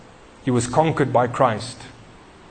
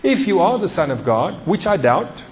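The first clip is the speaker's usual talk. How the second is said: Satan. Retold or imitated. Tempter to hungry Jesus, lightly mocking doubt. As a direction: taunt lightly, stretching out the challenge. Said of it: "he walks up to him and he says".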